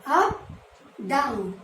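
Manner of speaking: Up rising high then down dropping low. Shown as a demonstration. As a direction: voice climbs on Up and falls on down. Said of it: "And then one sleeping line".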